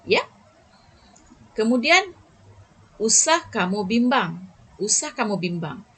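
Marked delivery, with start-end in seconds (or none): 3.0-5.9 firm usah kamu bimbang; firm reassurance. Shown as a demonstration. Teacher demonstrating a firm prohibition to pupils. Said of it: "masih nada yang tegas".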